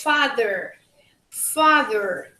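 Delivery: father with an r ending; "father, father." as faðə˞; American father. Shown as a demonstration. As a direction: say "father, father." with an r-coloured end. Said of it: "in United States".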